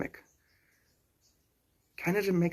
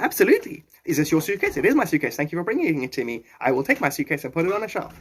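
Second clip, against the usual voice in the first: lively, all-yes improv acting; agreeable improv demo; 3 semitones higher, 3 dB louder than usual. Shown as a demonstration. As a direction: act out eager improv agreement. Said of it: "for improv, you must just say yes".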